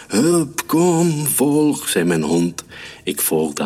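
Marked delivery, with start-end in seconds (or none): 0.1-1.9 high, punched single-word orders; urgent command. A narrator's reading. Dog leads the hunter to trouble, urgent commands. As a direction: urge them after you, voice pitched high.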